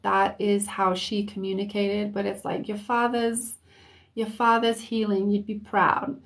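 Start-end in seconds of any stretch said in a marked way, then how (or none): 2.7-6.2 put-on light East Coast accent, relayed; hint of an East Coast voice. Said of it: "almost an East Coast type of accent".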